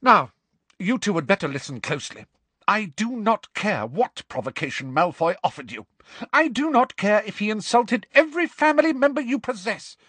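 high, forceful telling-off; stern fury. Acted. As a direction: lay down the law in outrage. Furious professor sentences pupils to detention.

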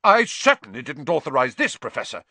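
affronted, emphatic denial; indignant. Acted. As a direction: protest in puffed-up indignation. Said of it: "puffing himself up indignantly".

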